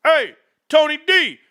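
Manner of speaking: real thrilled shouting at the chart; ecstatic. Real, not acted. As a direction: celebrate like your team just scored. Stock chart shooting up.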